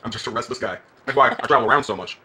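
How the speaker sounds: put-on hammy Southern accent. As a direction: play a Southern good old boy. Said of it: "putting on a Southern accent".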